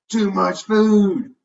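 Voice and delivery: high, loud, very slow cry; exclaiming. A narrator's reading. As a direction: wail it out, stretching every word.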